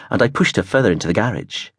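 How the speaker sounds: ordinary delivery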